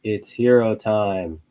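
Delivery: slow, even robot voice. Retold or imitated. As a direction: intone it slowly like a robot. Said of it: "in a robotic voice".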